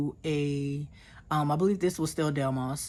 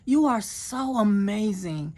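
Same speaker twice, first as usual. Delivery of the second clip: awed praise; 4 semitones higher than usual. Retold or imitated. She recalls praising God in the church, higher and awed. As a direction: cry out to God in wonder.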